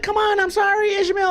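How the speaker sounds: high pleading coo to a dog; apologetic baby talk. Retold or imitated. Apologizing to the bitten dog, high pleading baby talk. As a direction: beg the hurt dog's pardon sweetly. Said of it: "I was like".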